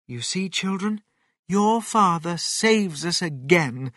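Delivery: high, gentle motherly voice; proud mother fox. Acted. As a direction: tell the children proudly. Mother fox proudly addresses children.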